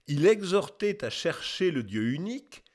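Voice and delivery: measured formal reading with a lifted ending; declaimed quotation. Acted. Narrator reading out an old testimony, lightly declaimed. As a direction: proclaim it lightly as a solemn testimony. Testimony read out, later repeated musingly.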